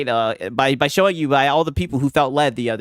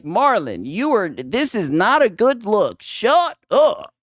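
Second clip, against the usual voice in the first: hammed-up wife telling him off; imitating wife; 4 semitones higher, slower than usual. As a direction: snap it like the annoyed wife.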